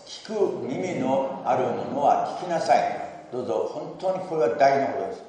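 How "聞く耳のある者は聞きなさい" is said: 1 recited together again. Shown as a demonstration. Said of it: "もう一度".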